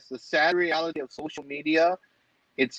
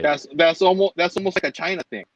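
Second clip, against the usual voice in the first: "almost" pushed out higher and louder; stress on ALMOST; 3 semitones higher, 4 dB louder than usual. Real, not acted. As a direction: lean on "almost", repeating it louder. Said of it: "emphasize the word almost".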